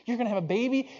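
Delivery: high, rising, astonished question; acted husband's happy disbelief; amazed question. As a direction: ask it high-pitched, hardly believing it.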